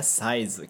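"Size" as saizu, katakana style; Japanese katakana size. Shown as a demonstration. Teacher modelling the Japanese "Size" for students. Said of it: "depois size".

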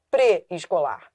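"pré-escolar" with a closed ê, as "prê"; wrong weak prefix. Shown as a demonstration. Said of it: "você não fala pré-escolar".

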